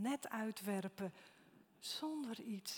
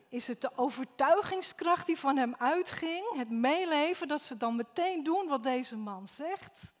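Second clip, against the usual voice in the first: loud rising sermon questions, much louder; forceful preaching; 4 semitones higher, 11 dB louder than usual. Real, not acted. Preacher asks the congregation why they obeyed, loud and forceful. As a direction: drive the questions home with full preaching force.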